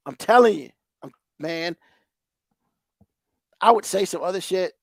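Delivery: normal talking voice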